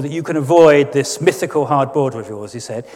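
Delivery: lightly mimicking an aristocratic drawl; a hint of a lazy toff, last words stretched out; Jacob Rees-Mogg drawl. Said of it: "Lord Adonis in his drawl".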